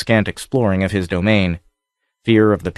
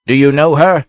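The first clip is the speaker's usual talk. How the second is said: higher, louder shout to the lookout; sharp shout; 6 semitones higher, 6 dB louder than usual. A narrator's reading. Captain shouting up to the lookout, loud. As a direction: cut through the wind with it. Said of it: "his voice slashed the wind".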